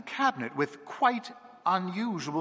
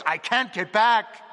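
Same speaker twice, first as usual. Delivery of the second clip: loud, drawn-out cry; slow, forceful wail from a possessed child; louder cry, another voice; 7 semitones higher, 7 dB louder than usual. A narrator's reading. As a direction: cry it out slowly and loudly. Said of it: "cried in another voice, a deeper, louder voice".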